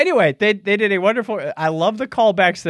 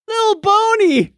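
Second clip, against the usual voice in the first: slow, very high imitated cry; hammed-up high-pitched lament; mock high wail; 4 dB louder, slower than usual. Quoting characters' cry over bonsai.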